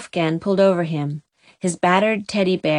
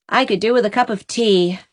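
plaintive. Acted. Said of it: "sighed Aunt Mary Maria plaintively".

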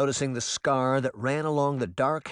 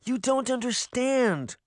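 arguing; 12 semitones higher, slower than usual. A narrator's reading. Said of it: "Sabrina argued".

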